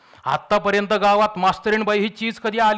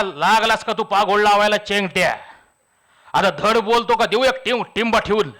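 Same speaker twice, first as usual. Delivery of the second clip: mild mock shout through clenched teeth; angry yell. Babu losing patience with Chengta, mildly voiced angry yell. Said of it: "दात ओठ खाऊन ओरडला".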